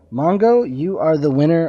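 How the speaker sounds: name called out high and loud with a rising lift; excited call-out. Real, not acted. Host announcing the CD winner to a listener, excited call-out.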